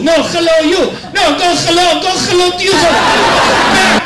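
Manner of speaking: high, harsh throaty yells of hello, rising; mock guttural shouting match. Negotiators at the peace table, hammed-up guttural squabble. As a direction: play both sides of a spitting argument, throat scraping every h.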